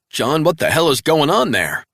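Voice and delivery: high, loud demanding voice; urgent boss on the phone; alarmed handler. A narrator's reading. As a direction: Travell demanding answers.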